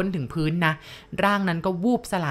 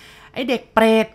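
loud, higher, drawn-out curse; acted shout; 4 semitones higher, 7 dB louder, slower than usual. A narrator's reading. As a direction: yell the insult slowly as the angry character. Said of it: "เขาตะโกนเสียงดังเลยนะ".

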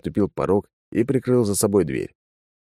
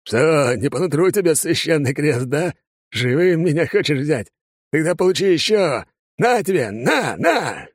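jab the cross at the demon; gloating drunk; 9 semitones higher than usual. Acted. Father taunting with the cross.

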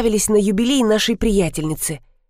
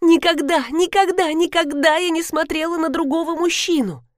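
desperate denial; 8 semitones higher than usual. Acted. Wife desperately denies cheating.

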